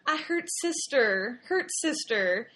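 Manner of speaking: put-on slow, small tearful toddler voice; crying child. Daughter crying to mom that she hurt her sister, tearful child voice. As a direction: imitate a crying child confessing. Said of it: "she's going".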